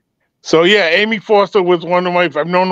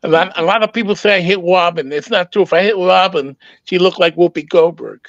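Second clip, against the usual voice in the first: pinched, squeezed-throat Tyson voice; Mike Tyson voice. Retold or imitated. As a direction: talk through a tight throat like Tyson. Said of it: "Mike Tyson talk like this".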